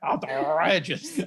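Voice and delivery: slow, hammed-up French accent; mock French accent. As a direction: stretch it out in a silly French accent. Joining in the French accent joke.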